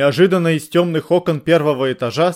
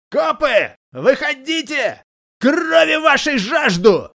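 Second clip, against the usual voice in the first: very high, slow, hoarse bellow; hoarse shout; 12 semitones higher, much slower than usual. A narrator's reading. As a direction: howl it like a bloodthirsty madman. Same bloodthirsty bandit calling out. (хриплый протяжный крик, очень высоко)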